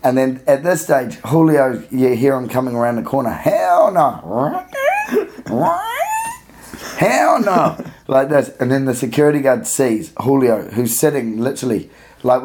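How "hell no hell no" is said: put-on Julio's accent. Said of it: "my attempts at doing Julio's accent".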